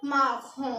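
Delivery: माखों with a throaty r and nasal ending; French pronunciation of माखों; French marron. Shown as a demonstration. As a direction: say माखों as ma-khon, final n swallowed. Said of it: "brown को बोलेंगे हम".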